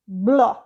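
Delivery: "bló" said slowly, B and L both sounded; teacher isolates "bló" for the class; syllable split out. Shown as a demonstration. Teacher sounds out "bló" to pupils, slow and clear. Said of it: "você escuta o B do B e você escuta o do L".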